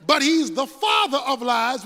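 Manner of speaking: ordinary talk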